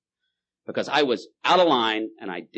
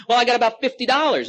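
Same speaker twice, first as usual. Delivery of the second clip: put-on higher, louder needy drunk; pleading drunk; 13 semitones higher, 7 dB louder than usual. Drunk bargaining with God, higher and louder. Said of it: "And the drunk goes".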